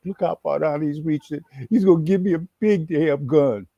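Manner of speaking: whisper-to-yourself awe that you're about to get a gun; excited inner voice. Retold or imitated. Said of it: "I'm like".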